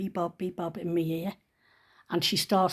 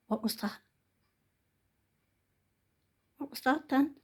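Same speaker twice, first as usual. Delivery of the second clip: startled; 6 semitones higher, 6 dB quieter than usual. Real, not acted. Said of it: "I don't know if you heard that noise".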